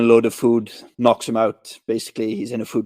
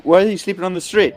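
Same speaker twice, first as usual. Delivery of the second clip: higher-pitched questioning kid, lightly voiced; kid's question; 7 semitones higher, faster than usual. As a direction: imitate a nosy kid's question. Voicing the kid questioning Buscemi.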